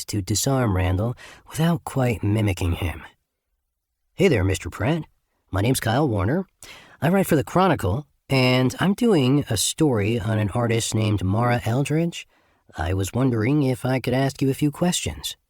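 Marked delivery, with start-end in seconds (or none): 4.1-15.4 bright, friendly reporter with a slight Midwest twang; a light Midwest accent, chatty and open. Acted. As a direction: disarm him with an easy Midwest friendliness. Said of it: "clear and friendly, with a slight Midwest twang".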